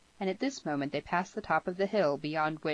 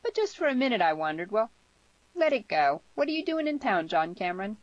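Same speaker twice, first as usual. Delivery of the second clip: put-on higher, lively girl's voice; brisk, higher-voiced girl character; young girl, frank and curious; 6 semitones higher, 5 dB louder than usual. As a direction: pitch it up and ask with open curiosity.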